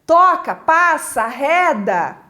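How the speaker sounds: punchy commands to clear off; demonstrated shooing, forceful; shooing away. Shown as a demonstration. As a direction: drive them off word by word. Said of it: "De afugentamento".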